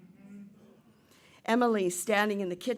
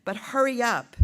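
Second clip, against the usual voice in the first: mother calling upstairs, somewhat raised voice; mild mock yell; 3 semitones higher, 5 dB louder than usual. Mother to the kids upstairs, mild acted yell. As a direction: hurry the children along, lightly acted yell. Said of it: "hears her mother yelling".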